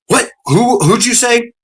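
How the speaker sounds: high, drawn-out mock disbelief; imitated slow, stunned query; incredulous questioning. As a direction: play a trooper who can't believe the name. Trooper reacts to named officer.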